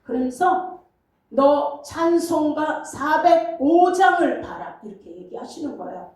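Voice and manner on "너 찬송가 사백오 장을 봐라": slow, solemn divine command with the weight on 장을; voice of God. Retold or imitated. God commanding the weeping pastor, slow and solemn. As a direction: hand down the order from above, slowly. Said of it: "이렇게 하는 것처럼 들리는 거예요".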